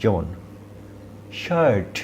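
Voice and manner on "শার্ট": শার্ট with a long আ from the throat; long throat vowel. Shown as a demonstration. Teacher modelling the long vowel, pitched up. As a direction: stretch the আ in শার্ট. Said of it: "সাউন্ডটা long হবে".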